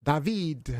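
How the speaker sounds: mock French, stretching the second syllable; put-on French accent. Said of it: "but in a French accent".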